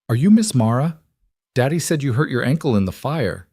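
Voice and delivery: put-on eager, high little girl. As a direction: play the excited young daughter. Lily's lines voiced as child.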